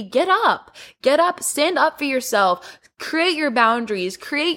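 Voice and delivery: rally them out of their chair; rousing call. Real, not acted. Urging the viewer to act.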